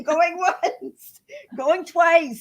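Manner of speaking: high, loud auctioneer call; going once, going twice call. Pretend. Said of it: "I feel like an auctioneer".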